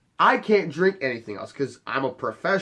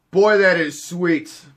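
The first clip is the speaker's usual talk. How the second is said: slow, louder relish; savoring; 4 semitones higher, 6 dB louder, slower than usual. Retold or imitated. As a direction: linger on the taste, satisfied. Savoring the new soda.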